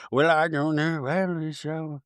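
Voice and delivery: low, soft mock-calm reply; Meredith, very calm. Meredith answers the accuser, mock calm. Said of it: "Meredith is just very calm".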